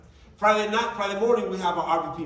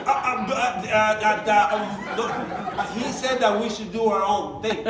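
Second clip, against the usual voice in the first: slow, halting, nervous stammering; flustered stammer; 3 semitones higher, 4 dB louder, slower than usual. Retold or imitated. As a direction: stall as if caught red-handed. Caught brother stammers.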